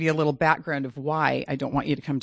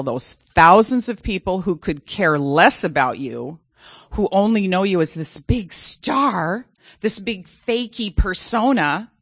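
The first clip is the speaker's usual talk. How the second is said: bitter retort. Retold or imitated. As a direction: drag out each insult at him. Mother's bitter retort to son.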